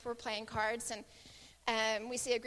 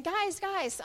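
retold calling out; 7 semitones higher than usual. Son getting the group's attention, calling out. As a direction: imitate a boy calling to the group. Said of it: "he kept saying".

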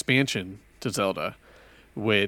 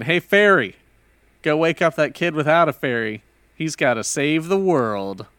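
dramatic storytelling; 4 semitones higher, 4 dB louder than usual. Retold or imitated. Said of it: "trying to go into some sort of dramatic storytelling".

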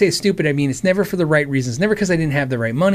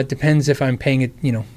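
usual speaking voice

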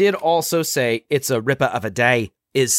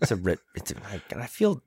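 deflated retry; 7 semitones lower, 8 dB quieter, faster than usual. Shown as a demonstration. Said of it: "It sounds so much cooler when he says it".

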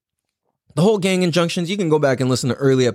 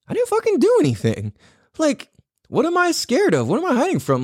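high-pitched, exasperated protest to himself; agitated self-talk; 13 semitones higher than usual. Retold or imitated. Talking himself out of hiding from the sheriff, agitated protest. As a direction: retell it pitched way up, indignant.

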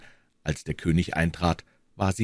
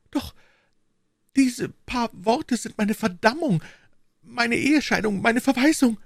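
dread. Acted. Queen fears her own letter will ruin her, anguished. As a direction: list each ruin with mounting anguish.

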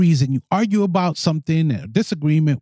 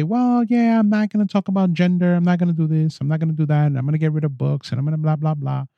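run-on mock complaint, trailing into blahs; mock petulant protest; faster than usual. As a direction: rattle it off like a sulky refusal. Mocks the letter writer's tantrum.

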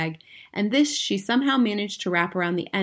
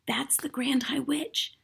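slow breathless whisper; hushed, frightened whisper; 6 semitones higher, 6 dB quieter, slower than usual. A narrator's reading. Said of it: "I whispered".

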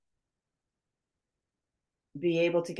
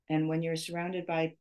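starting to choke mid-sentence; choking. Real, not acted. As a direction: voice catching on a choke. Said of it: "I was choking there for a minute".

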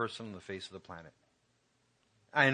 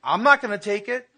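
much higher and louder, stressing not; raised insistent retold yell; insistent shout; 12 semitones higher, 12 dB louder than usual. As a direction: refuse loudly, no argument. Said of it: "I go".

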